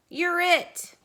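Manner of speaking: playful tag. Acted. Cow tags Mister Duck.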